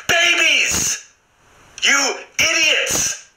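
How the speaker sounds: high, exasperated exclamation; exasperated outburst. Real, not acted. Comedian answering their own question about coddling everyone, exasperated outburst. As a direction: cry it out at a pitch of exasperation. Ranting outburst at imagined women.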